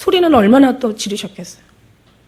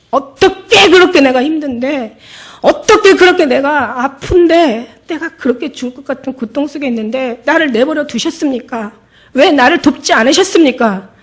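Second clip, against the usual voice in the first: angry reproach; 3 semitones higher, 4 dB louder than usual. Retold or imitated. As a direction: hurl the why at Jesus, voice rising. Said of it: "여자가 막 화를 내는 거예요".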